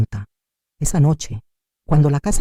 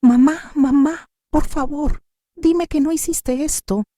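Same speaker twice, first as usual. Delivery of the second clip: pleading in tears; 12 semitones higher, slower than usual. A narrator's reading. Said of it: "Elena lloraba fuera de control".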